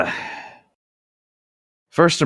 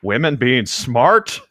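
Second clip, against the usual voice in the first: slow, mildly scoffing teacher; skeptical teacher; 3 semitones higher, 3 dB louder, slower than usual. Acted. A hint of the skeptical teacher Mister Banner scoffing. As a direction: drawl out the doubt, half laughing. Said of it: "Mister Banner's thought were skeptical".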